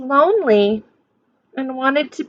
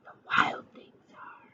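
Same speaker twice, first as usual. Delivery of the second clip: whispered, softer reveal; 15 dB quieter than usual. A narrator's reading. Reader to children, hushing the title phrase in a whisper. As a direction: breathe the words out secretly.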